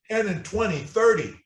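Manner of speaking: Ten and twenty, thirty with TEN and thirty stressed, falling; drill model. Shown as a demonstration. Teacher models the crutch drill for the student, stressed. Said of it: "crutch number three".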